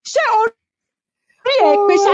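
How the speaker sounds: switched to Yoruba. Retold or imitated. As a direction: go street on her. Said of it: "I went straight in Yoruba".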